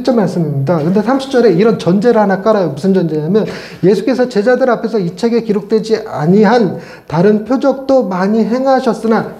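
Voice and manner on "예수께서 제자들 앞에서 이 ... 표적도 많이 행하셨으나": measured, slowed-down Bible reading; scripture reading. Shown as a demonstration. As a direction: read the verse out formally. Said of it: "요 문구".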